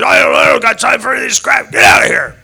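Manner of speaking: fast, loud, high mock rant; angry boss shouting. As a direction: throw him out like the irate boss. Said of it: "He said".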